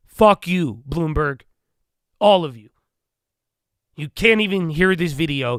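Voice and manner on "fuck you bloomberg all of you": shouting angrily, yelling. Ranting at Bloomberg about a recorded phone call: yelling. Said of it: "I don't know who I'm yelling at".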